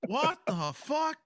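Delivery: high, drawn-out incredulous exclamation; amused disbelief. Real, not acted. Player stunned that the corpse left, laughing disbelief. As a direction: stretch it out high through laughter. Amazed that the command worked.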